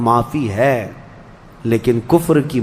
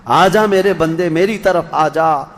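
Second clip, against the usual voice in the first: the same call, stronger and more urgent; fuller call; 2 semitones higher than usual. Retold or imitated. God calling the servant again, more urgent and fuller. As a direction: call out again, pressing harder. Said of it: "بلا رہا تھا".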